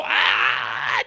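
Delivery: drawn-out pained "ah"; mock scream. Podcaster reacting to the brawl, long mock scream. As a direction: cry out in a long mock yell.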